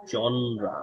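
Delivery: জনরা as "JON-ra"; জনরা for learners to copy; model pronunciation. Shown as a demonstration. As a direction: say জনরা in two syllables, falling. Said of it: "উচ্চারণটা কি?".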